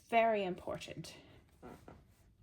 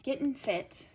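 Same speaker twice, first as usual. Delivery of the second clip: slightly raised catchphrase; playful put-on delivery; 4 semitones higher than usual. Reader repeating a fitness slogan, playfully put on. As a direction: say it as a perky slogan. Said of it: "Gotta say it like that".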